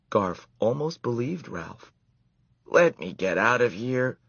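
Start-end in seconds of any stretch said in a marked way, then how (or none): 2.6-4.2 pleading. A narrator's reading. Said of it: "pleaded Ralph".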